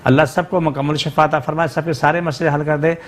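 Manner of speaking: earnest dua recited steadily; fervent prayer. Acted. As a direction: pray aloud for everyone's healing. Leads a prayer for callers. (जोश भरी दुआ)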